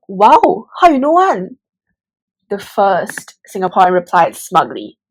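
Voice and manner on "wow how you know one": impressed Singlish. Acted. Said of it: "the other was so impressed and asked".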